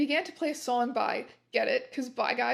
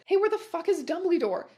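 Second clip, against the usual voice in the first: angry shout; 6 semitones higher, 4 dB louder than usual. Acted. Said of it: "Draco shouted angrily".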